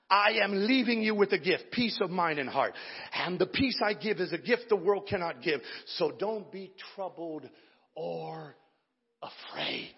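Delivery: hushed, tender verse reading; tender scripture reading. Acted. Quiet scripture reading after preaching.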